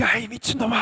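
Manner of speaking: strained, high-pitched outburst; acted shout of outrage. Shown as a demonstration. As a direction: cry it out as an outraged accusation. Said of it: "크게 소리를 질".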